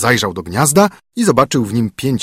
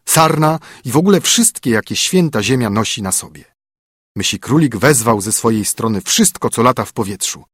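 usual speaking voice

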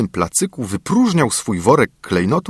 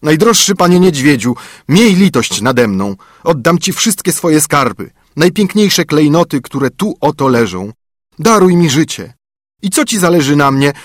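high, louder begging dwarf; frightened pleading; 5 semitones higher, 4 dB louder than usual. A narrator's reading. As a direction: plead for your life as the dwarf. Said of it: "zawołał z trwogą".

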